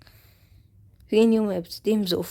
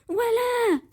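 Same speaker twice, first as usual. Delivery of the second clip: exasperated laugh; 8 semitones higher, 3 dB louder, much slower than usual. Real, not acted. After the blunder.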